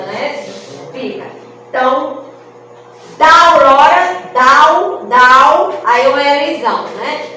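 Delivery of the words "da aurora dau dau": "dau" pulled out as one loud syllable from "da aurora"; syllable split. Shown as a demonstration. Teacher shows the class how "da aurora" merges into one syllable. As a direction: chop "da aurora" into "dau" and say it loudly. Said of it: "uma sílaba".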